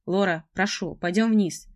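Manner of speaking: urgent pleading. Acted. Seth pleads with her.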